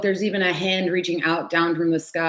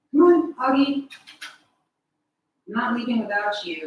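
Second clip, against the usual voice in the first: coaxing pet voice; 6 semitones higher than usual. Real, not acted. Coaxing cat.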